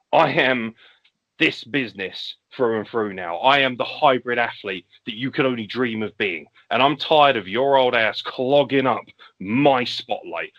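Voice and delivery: a hint of an arrogant heel, slow in places; lightly voiced cocky rival calling out the legend; heel promo. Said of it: "He will come out and he will say".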